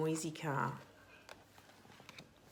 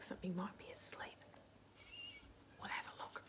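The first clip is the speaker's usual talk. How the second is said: softer whisper so nothing wakes; sleepy hush; 12 dB quieter, faster than usual. Acted. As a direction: tiptoe voice, don't wake it. Something asleep in the car.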